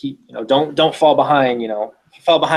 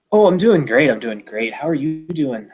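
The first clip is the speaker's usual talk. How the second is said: put-on bastardized Irish accent; 3 semitones higher than usual. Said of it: "a bastardized Irish accent".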